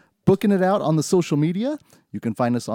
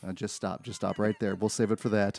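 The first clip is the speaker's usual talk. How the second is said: quiet; 5 semitones lower, 7 dB quieter than usual. Real, not acted. Cutting off spoilers.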